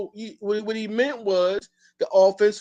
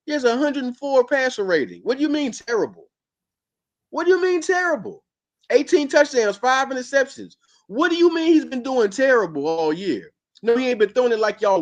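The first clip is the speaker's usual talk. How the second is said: exasperated; 8 semitones higher, 4 dB louder than usual. Real, not acted. Exasperated defense of his quarterback.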